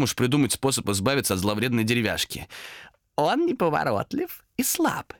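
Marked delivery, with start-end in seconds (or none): 3.2-5.1 high, slow, husky insinuation; hoarse demon whispering. A narrator's reading. Demon tempts Томас to give chase, hoarsely whispering. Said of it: "сипло нашёптывал демон".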